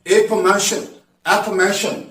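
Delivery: एफर्मेशन with the main stress on मेशन; एफर्मेशन stressed at the end. Shown as a demonstration. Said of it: "primary stress".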